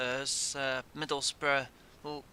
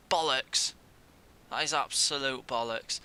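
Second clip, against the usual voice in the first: angry curse. Real, not acted. Conceding goal.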